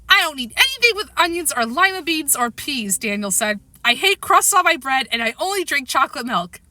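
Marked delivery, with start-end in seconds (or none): 0.1-3.0 lightly voiced fussy small boy, higher; a hint of a fussy little boy; little boy's voice. Small boy Daniel voiced in story. 3.8-6.6 lightly voiced picky small boy; a fussy kid, pitched up at first; a hint of a stubborn little boy; little boy's voice. Small boy Daniel voiced in story.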